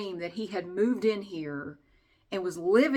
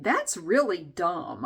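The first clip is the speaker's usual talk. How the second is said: scornful thought; much slower than usual. Retold or imitated. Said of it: "but I'm thinking".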